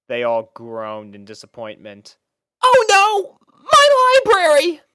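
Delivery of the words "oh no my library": very high, loud wail; dismayed cry. Acted. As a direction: cry out at the ruin. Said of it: "called Twilight Sparkle".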